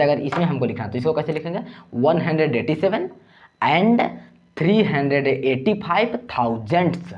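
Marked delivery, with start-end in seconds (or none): 1.9-7.1 "and" set apart by pauses, raised; measured dictation, slow on "thousands"; formal decimal reading. Shown as a demonstration. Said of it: "ऐसे आपको लिखना पड़ेगा". ("and" पर रुककर, औपचारिक ढंग से)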